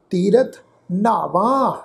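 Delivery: ਤੀਰਥ ਨਾਵਾਂ, slow, with a weighted nh in ਨਾਵਾਂ; slow ਤੀਰਥ ਨਾਵਾਂ with a half h after the n; slightly heavy n. Shown as a demonstration. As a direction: lean breath into the first n of ਨਾਵਾਂ. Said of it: "ਇਹਨੂੰ ਥੋੜ੍ਹਾ ਭਾਰਾ ਕਰਕੇ pronounce ਕਰਨਾ".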